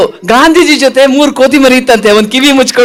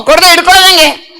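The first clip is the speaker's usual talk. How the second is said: higher puppet voice; argumentative puppet; 4 semitones higher than usual. Acted. Puppet disputes imaginary chocolates with host, argumentative puppet voice. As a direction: argue back as a stubborn puppet.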